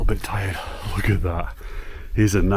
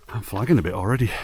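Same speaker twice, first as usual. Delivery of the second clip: out of breath; faster than usual. Real, not acted. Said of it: "sorry about the huffing and puffing".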